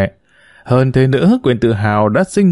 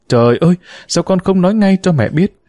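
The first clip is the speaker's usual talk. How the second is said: dismayed cry; 7 semitones higher than usual. Acted. Mother-in-law hears shocking news.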